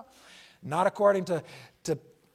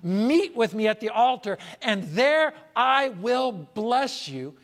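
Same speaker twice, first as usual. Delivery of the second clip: slow, higher, solemn divine voice; God speaking; 5 semitones higher, 5 dB louder, slower than usual. Acted. Preacher voicing God's call to the altar, slow and solemn. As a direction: lift it up slowly as God's invitation. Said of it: "When God said in Exodus".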